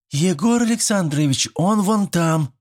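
high-pitched shout of a schoolgirl from a window; girl calling out. A narrator's reading. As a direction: call up high to the teacher, pointing. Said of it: "крикнула Даша".

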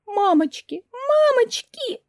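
high wailing cry, the second one drawn out slowly; panicked wail. Acted.

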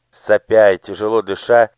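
ordinary delivery, nothing marked

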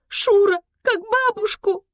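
high, loud exasperated groan; moaning. Acted. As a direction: whine it out in despair. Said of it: "простонала девочка".

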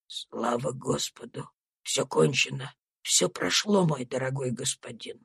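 put-on an old servant soothing his master; low gentle comfort. Tom tells his master it is over, low tender comfort.

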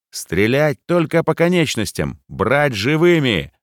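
high, loud shouted orders, last slow; yelling at full voice. A narrator's reading. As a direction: roar over the gunfire. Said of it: "орал лейтенант Ракитин во весь голос".

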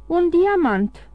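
high, slow gasp of wonder; amazed. A narrator's reading. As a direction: stretch it out in astonishment. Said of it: "se miră Carconta". (uimire, rar și sus)

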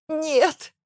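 high, choked, sobbing «Нет!»; choked sob. A narrator's reading. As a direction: squeeze the no out through sobs. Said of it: "зарыдала я сдавленно". (сдавленное рыдание)

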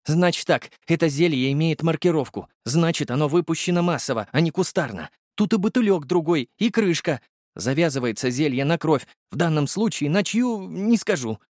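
high, wondering voice speeding up at the end; the potion maker baffled by the elixir; puzzled alchemist. Acted. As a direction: puzzle it out aloud, climbing high. Volodya explains.

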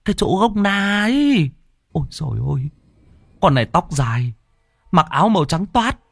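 high, fast, stammering protest; insistent, scared arguing. Acted. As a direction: insist the ghost was real, still frightened. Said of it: "cố cãi".

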